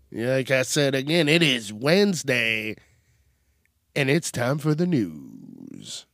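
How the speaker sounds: morning voice. Shown as a demonstration. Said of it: "That's a little too morning-y voice".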